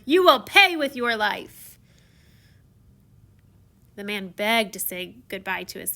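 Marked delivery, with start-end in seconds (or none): 0.1-1.8 loud slow threat; beastly threat. Acted. Beast threatening the traveler, loud and slow. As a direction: threaten him like a monster. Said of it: "I roared".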